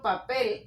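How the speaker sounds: "papel" with the weight on "pel"; stress on last syllable. Shown as a demonstration. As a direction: lean on the final syllable of "papel". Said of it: "aquí lleva la fuerza de la voz". ("papel" con la fuerza de la voz en "pel")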